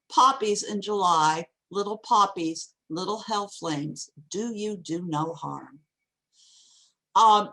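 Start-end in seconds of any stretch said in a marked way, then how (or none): 0.1-5.8 poem reading. Shown as a demonstration. Lecturer rereading the opening lines to the class, measured poem reading. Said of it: "I'll read it again".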